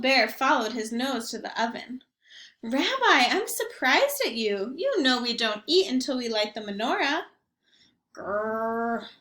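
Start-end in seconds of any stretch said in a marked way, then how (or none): 2.6-7.3 a cheerful, half-deaf grandmother greeting her guest; Baba Brena. Acted. Grandmother greeting the rabbi at her door, chirpy old lady voice. 8.1-9.1 bear growl. Acted. Bear's growl in story.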